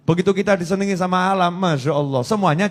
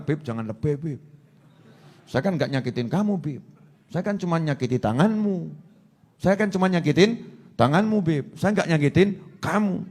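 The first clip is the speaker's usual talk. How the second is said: acted excuse; 6 dB quieter than usual. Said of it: "Saya bilang".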